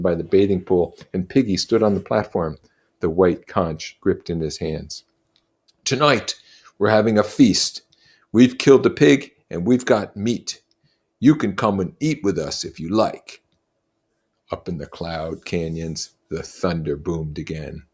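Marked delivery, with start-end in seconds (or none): 5.8-13.4 a lightly voiced proud chief, a bit louder; Jack, boastful. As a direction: swagger through the invitation. Jack invites to feast.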